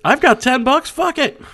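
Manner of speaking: high, loud, careless blurt; tipsy shopper. Pretend. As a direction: blurt it like a reckless drunk. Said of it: "But intoxicated you doesn't have those inhibitions".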